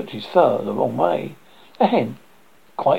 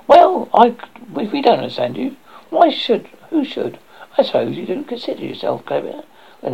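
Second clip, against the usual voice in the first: indignant hen voice. Acted. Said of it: "said the hen".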